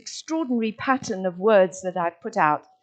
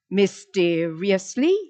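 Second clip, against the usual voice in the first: "mysteriously" slowly, in measured beats, rising at the end; syllable by syllable; slower than usual. Shown as a demonstration. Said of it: "three syllables".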